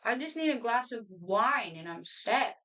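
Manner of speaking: talking while chewing a cracker; mouth full. Real, not acted. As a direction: speak through a mouthful. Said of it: "don't talk with your mouth full".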